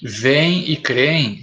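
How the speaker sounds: said slowly, word by word; drawn-out teacher demo. Shown as a demonstration. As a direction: spell out Vem e creem slowly for the class. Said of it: "mas agora não levam mais acento".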